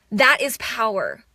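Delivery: ordinary talk, nothing marked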